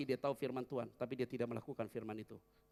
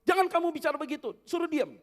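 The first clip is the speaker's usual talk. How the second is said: telling him to hush; 15 dB louder than usual. Acted. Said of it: "Ada orang yang mengusir".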